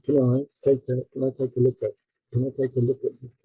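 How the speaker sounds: 'take a look at' joined with no gaps; linking. Shown as a demonstration. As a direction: run 'Can I take a' together as one compressed chunk. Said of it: "you show how things get compressed".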